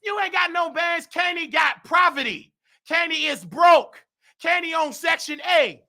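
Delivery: roasting rival. Real, not acted. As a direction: tear into her with scorn.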